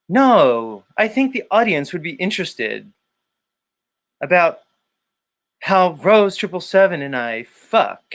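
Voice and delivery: mock eager pitch of a topic; Jason Lindgren impression. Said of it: "Maybe I could be Jason?".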